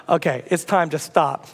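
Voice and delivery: low, slow, restrained warning; a little agitated. Retold or imitated. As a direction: firmly call a halt, holding irritation in. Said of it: "I'm getting a little agitated".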